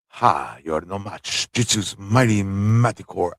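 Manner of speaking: a low, quiet hint of a villain. Jitsu taunting the Manticore, lightly voiced and low. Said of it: "I don't know if he speaks like that".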